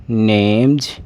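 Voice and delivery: नेम्स said as "nemj"; voiced j ending. Shown as a demonstration. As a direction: close नेम्स on a buzzed j. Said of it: "इस जो एस का उच्चारण है वो जय होगा".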